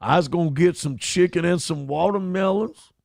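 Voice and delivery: a lightly put-on Indian accent; a hint of an Indian stereotype voice; mock Indian accent. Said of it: "She'll talk in an Indian voice".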